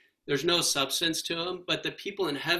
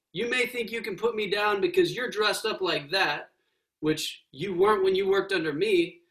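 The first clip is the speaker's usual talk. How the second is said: ghost voice; 2 semitones higher than usual. Acted. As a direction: brag like a proud working man. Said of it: "said the ghost".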